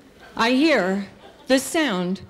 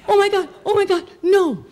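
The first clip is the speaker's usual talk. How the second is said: put-on high, loud frightened child; hammed-up terrified pleading; acted panic; 11 semitones higher, 4 dB louder, faster than usual. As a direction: protest in dread of being dragged up. Girl dreading the roof.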